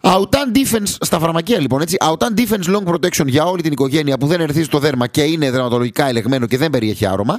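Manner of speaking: lightly voiced product pitch; ad read. Host reading the sponsor ad, light ad-read tone.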